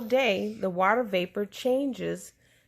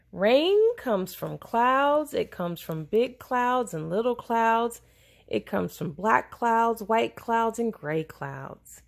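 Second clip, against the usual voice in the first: put-on reading to children; 2 semitones higher than usual. Parent reads book aloud.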